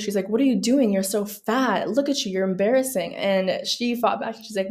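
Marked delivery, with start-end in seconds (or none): 0.3-3.1 mock an angry mom scolding her daughter; furious mother. Daughter retells her furious mother scolding her, mock angry. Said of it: "her mother was furious".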